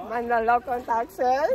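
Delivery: mock American accent on Tagalog, laughing. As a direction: giggle through a put-on American accent. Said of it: "gawin mo American accent". (puntong Amerikano, natatawa)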